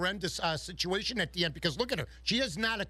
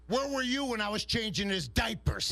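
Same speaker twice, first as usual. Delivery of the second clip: mild gruff dad. Retold or imitated. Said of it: "put the cigarette out and said".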